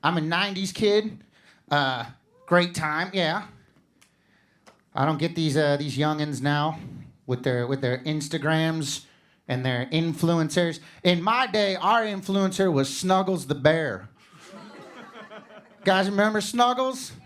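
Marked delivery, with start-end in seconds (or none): 4.9-14.1 put-on slow, grumbling old-timer voice about kids today; a light, mocking play on a grouchy old man, drawn out; grumpy old-timer.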